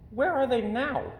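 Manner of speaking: high, impatient bear voice; a bear tired of the chase; impatient little bear. A narrator's reading.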